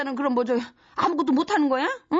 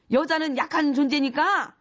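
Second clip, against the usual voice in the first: sarcastic echo. Acted. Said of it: "mocking repeat of boss's words".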